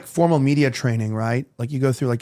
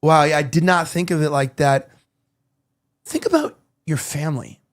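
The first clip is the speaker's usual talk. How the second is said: a pondering "Wow, yeah", then a long pause before "Think about your family". Shown as a demonstration. Host showing trained reactions on live camera, pondering pauses. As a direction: feign being struck, then let "your family" sink in after a pause. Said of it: "you do a lot of these".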